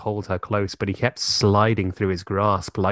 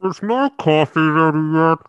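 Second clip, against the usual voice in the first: higher, louder put-on girly voice; mock heroine voice; 7 semitones higher, 5 dB louder than usual. Joking about the heroine in the shower, mock girly voice. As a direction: camp it up as the heroine.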